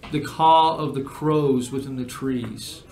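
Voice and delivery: measured game master narration; scene narration. Acted. Game master describing a journey to players, measured narration. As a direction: set the scene with deliberate pauses.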